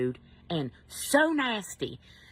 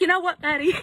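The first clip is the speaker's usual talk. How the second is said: much higher, louder angry snap; losing control; 11 semitones higher, 6 dB louder than usual. Retold or imitated. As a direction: finally blow up at the rude worker. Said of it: "I lost all control".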